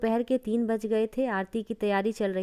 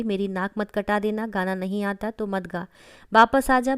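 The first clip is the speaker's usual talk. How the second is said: shouting from the crowd. Acted. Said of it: "सास जोर से चिल्लाई".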